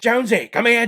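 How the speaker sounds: loud, high imitation of a henchman calling a friend over; Ray Winstone calling out. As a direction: yell for Jonesy to come over in a put-on gruff-guy voice. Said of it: "the guy from Indiana Jones and the Kingdom of the Crystal Skull".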